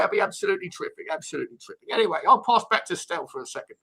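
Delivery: lightly voiced Harry, chatty old manager; a hint of Redknapp's patter; Harry Redknapp impression. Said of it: "Harry Redknapp, you smashed it".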